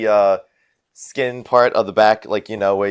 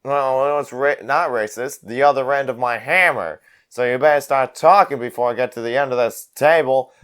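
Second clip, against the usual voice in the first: slightly raised, insistent brawler voice; threatening brawler; 5 semitones higher than usual. Acted. Brawler advancing down the table at Prescott, lightly voiced threat. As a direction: press the threat as you advance.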